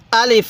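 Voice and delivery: short আলিফ, vowels not stretched; without drawing out. Shown as a demonstration. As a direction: say আলিফ briskly to its final f. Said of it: "টান দিবেন না".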